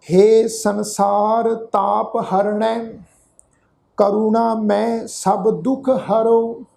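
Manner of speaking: slow reading with drawn-out syllables; scripture recitation. Shown as a demonstration. Teacher asks congregation to listen, slow recitation. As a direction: recite each phrase slowly and evenly. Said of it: "ਇਹਨੂੰ ਸੁਣੋ".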